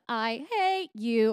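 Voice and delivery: slow, drawn-out hate; hateful. Shown as a demonstration. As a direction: linger on the words with venom. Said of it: "we'll move into, like, the".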